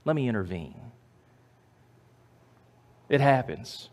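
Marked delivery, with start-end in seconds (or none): 0.0-0.9 loving God. Acted. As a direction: speak as a patient, loving God. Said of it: "very lovingly, God says".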